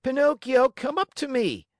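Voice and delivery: high, loud calling shout. Acted. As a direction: call him up onto the stage. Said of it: "shouted Harlequin".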